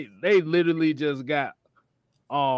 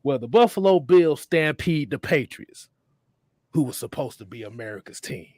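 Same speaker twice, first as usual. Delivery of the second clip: Raven; 3 semitones lower than usual. Acted. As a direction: intone it gravely, phrase by phrase, letting lines drop away. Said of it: "let me do my best Raven impression".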